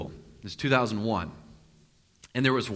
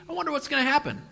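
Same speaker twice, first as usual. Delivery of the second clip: Jonah's musing; 10 semitones higher, faster than usual. Retold or imitated. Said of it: "That's what he's thinking".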